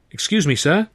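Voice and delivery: put-on timid, polite young man. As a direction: ask shyly, like a nervous lad. Young man politely addressing stranger.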